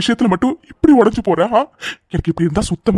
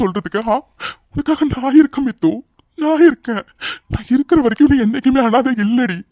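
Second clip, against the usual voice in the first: higher, tearful, voice breaking with love; crying while pleading; 4 semitones higher than usual. Acted. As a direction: pour it out through tears. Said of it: "please, நீ அழாத". (அழுதுகொண்டே உருக்கமாக)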